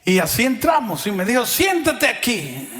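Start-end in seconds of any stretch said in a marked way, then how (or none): 1.5-2.7 orden alta y lenta, medio gritada; grito imitado. Retold or imitated. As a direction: imitar al amigo dando la orden fuerte. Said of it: "me gritó así". (el amigo ordena sentarse delante del médico, gritando un poco)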